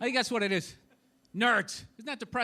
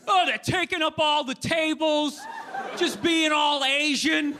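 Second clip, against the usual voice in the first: mock complainer; slower than usual. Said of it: "you know".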